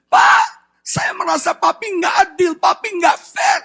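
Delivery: mock-tearful, high-pitched plea; tearful retelling. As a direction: imitate a hurt child pleading with dad. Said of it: "dia nangis".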